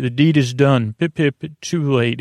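lightly imitated English accent; a hint of hammed-up English accent; mock English accent. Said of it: "in this English accent".

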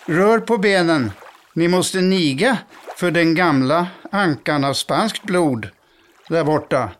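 proud duck mother calling her brood; calling out to the ducklings. Acted. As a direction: round up the children, a bit bossy. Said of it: "ropade på ungarna".

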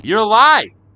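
can't believe he's here; amazed exclamation. Acted. Girl greets the boy she thought was dead, loud amazed cry.

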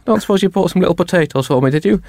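high, fast put-on wife voice; wife asking. Wife asking Barack about potatoes, high fast voice. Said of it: "range of accents".

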